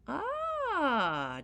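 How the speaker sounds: high, loud sharp "Ah"; sharply. Acted. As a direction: pounce on it sharply. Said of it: "declared the leprechaun sharply".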